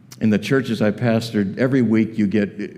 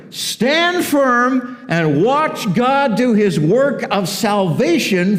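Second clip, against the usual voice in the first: high, emphatic exhortation; rally them with drawn-out, raised-pitch conviction; commanding prophet; 12 semitones higher, slower than usual. Acted. Moses to the frightened people, urgent rallying call.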